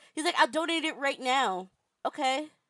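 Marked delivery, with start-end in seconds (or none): 0.3-1.6 mock flustered, panicky voice. Retelling how Gerard answered about the missing money: imitating Gerard panicking. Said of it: "Gerard is pa-, panicking. You can hear him in his voice".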